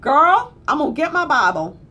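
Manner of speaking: hammed-up Southern nurse calling out; a nurse announcing she's getting her Bible, loud and high; mock nurse outburst.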